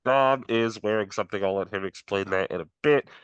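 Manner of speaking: talking through a Halloween mask; words dulled behind a mask; muffled through mask. Real, not acted. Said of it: "If I sound a little muffled".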